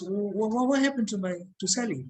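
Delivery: stammering, mildly panicked acted question; shaken mother. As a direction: trip over the opening word like a shaken mother. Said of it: "the mom is really shaking".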